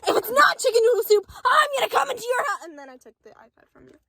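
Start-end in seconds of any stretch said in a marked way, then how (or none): 0.1-2.6 loud mock threat, building up; menacing Boba Fett. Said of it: "Do you want me to recreate it?".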